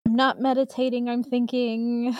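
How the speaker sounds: serene guru pondering aloud; Moki voice. Pretend. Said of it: "You're pulling a Moki".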